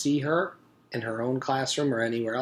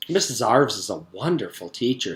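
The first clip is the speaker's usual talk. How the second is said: sing-song; 6 dB louder than usual. Acted. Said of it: "said Virginia in a sing-song voice".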